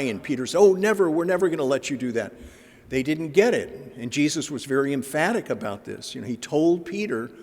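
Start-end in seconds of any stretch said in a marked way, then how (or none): 0.6-2.3 high, loud "never" then a quick rush; alarmed protest. Acted. Peter refusing to let Jesus suffer, loud and hurried.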